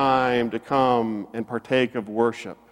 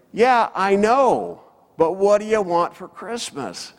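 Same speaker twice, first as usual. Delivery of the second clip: retold yell; 7 semitones higher than usual. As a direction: imitate hollering back to the boat. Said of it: "he yells to them".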